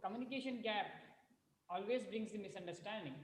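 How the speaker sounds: very faint, far from the mic; speaking too softly into the mic; barely audible. Real, not acted. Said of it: "your voice is very low".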